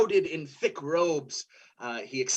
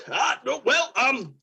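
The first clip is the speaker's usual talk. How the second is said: higher, halting put-on voice; apologetic, stumbling helper; flustered helper character; 5 semitones higher than usual. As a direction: hesitantly refuse in a higher voice. Helper character nervously declines.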